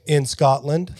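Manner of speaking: a hammed-up Scottish accent on "In Scotland". Shown as a demonstration.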